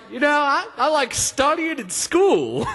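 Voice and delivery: put-on flustered boy blurting a dorky reply; tongue-tied mock nerd voice; talking weird. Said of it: "then I start all talking weird".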